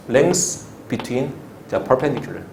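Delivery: drawn-out, slow "Length between"; slow repeat-along model. Shown as a demonstration. Teacher has class repeat the full name of LBP, slowly. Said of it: "다 같이 한번 따라볼까요".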